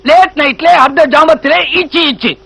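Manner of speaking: lightly voiced roadside showman's pitch; a touch of sing-out street-show spiel; street showman patter. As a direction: hawk it like a street performer, in a rhythmic list. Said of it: "நடு ரோட்ல வித்த காட்டுற மாதிரி கத்துறானே".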